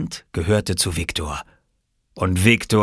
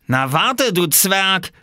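high, raised threatening cry; angry threat; 12 semitones higher, 4 dB louder, much slower than usual. Acted. Splashed boy going after the little one, angry threat. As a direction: threaten the pest, pitched up.

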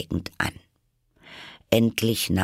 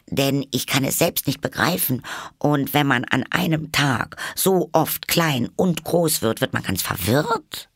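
high, quick polite reply; very polite girl; 7 semitones higher than usual. A narrator's reading. Alice answers the caterpillar very politely. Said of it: "sehr höflich".

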